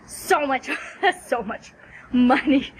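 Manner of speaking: laughing in disbelief at the price; incredulous laugh. Real, not acted. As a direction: chuckle through "so much". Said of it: "laughing at the cost".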